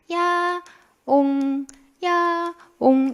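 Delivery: high, drawn-out spoken meows; cat meow imitation. Teacher showing how her cat cries, meow imitation. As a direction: imitate a cat's morning cry. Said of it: "어떻게 우냐면".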